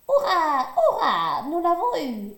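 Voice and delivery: loud triumphant cheer. A narrator's reading. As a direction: cheer the fallen bear. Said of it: "s'écrient les castors". (castors victorieux crient de joie)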